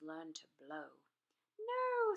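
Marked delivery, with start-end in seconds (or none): 1.6-2.1 high, loud teacher's no; high loud correcting no. A narrator's reading. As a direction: stop the pupil sharply. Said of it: "said Madam Dragon".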